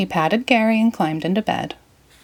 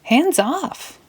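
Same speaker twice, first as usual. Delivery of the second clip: cartoon shout; 9 semitones higher than usual. Intro clip voice.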